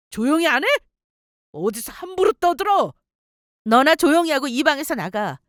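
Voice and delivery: angry rebuke. Acted. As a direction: shut her up in a rage. Husband silences mocking wife. (언성을 높여 호통치는 말투)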